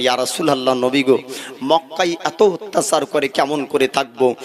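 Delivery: normal talking voice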